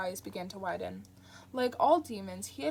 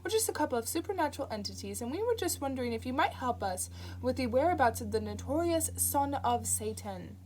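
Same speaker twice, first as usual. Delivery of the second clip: sing-song; 4 semitones higher, 4 dB louder than usual. Acted. Crowley greeting the entranced woman in a mocking sing-song. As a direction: sing it out like a cheery visitor. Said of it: "in a sing-song voice".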